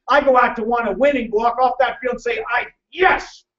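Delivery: emotional coach driving each line home; fired-up, emphatic repetition building to a triumphant yes; pumped up. Real, not acted. Coach urging the audience to win and compete, pumped up. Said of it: "I get emotional and pumped up about winning".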